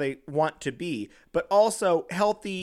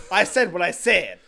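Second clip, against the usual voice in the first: louder, emphatic catchphrase with attitude; punchy, imitated drag-queen clapback; glaring sass; 5 dB louder than usual. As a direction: deliver it like a fierce glare. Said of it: "I want the facial glare".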